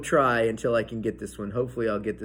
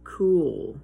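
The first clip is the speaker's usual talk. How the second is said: excited awe; 11 semitones higher, 6 dB louder, much slower than usual. Real, not acted. Excited reveal of bubble shape.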